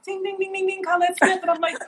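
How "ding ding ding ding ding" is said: imitated bell dinging. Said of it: "your face was like".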